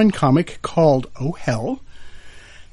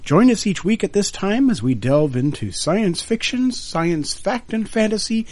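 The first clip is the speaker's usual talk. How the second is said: bright, lifted show-opening voice; radio host intro. Acted. Final take of show opening.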